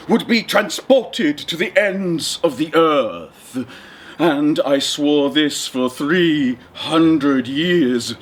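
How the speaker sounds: a slow, lightly voiced booming genie; menacing ancient spirit drawn out slowly. Genie threatening the fisherman who freed him, slow and grand.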